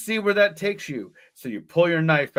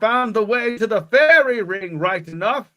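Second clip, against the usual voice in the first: put-on old rural accent; 5 semitones higher, 4 dB louder than usual. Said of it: "that funny accent all the old people".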